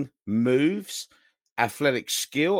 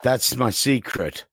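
mock Hulk line; 6 semitones lower, slower than usual.

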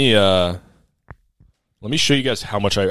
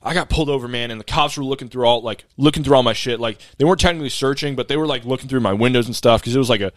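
imitating a fast-talking driver; rapid-fire talk. Delivery driver explains being pulled over to his customer, rapid-fire. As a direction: rattle it off in one breathless run. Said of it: "He's talking this fast".

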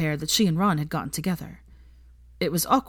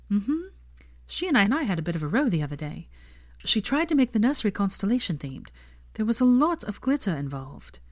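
lightly voiced young woman, higher; a hint of a young woman's voice; Hermione voice; 4 semitones higher than usual.

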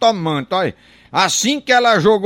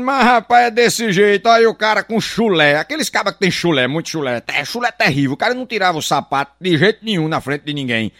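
normal talking voice

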